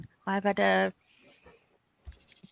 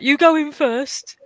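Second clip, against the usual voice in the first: high, loud, slow mock-frightened plea; mock scared; 8 semitones higher, 7 dB louder, slower than usual. At the dark office, pushing her husband ahead with a mock-scared plea. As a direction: beg someone else to go first, hammed up. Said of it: "so I was like".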